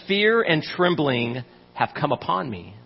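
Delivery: slow, weighty reading of David's words; slow scripture quote. Acted. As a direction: let the verse sink in, slowly. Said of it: "He says".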